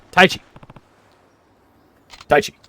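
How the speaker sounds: calling out. Acted. Father calling for missing son.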